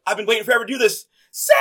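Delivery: high, fast cheerleader building to a yell; imitated excited cheerleader cry; head cheerleader voice. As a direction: rush the line, then holler the name long. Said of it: "the head cheerleader's just like".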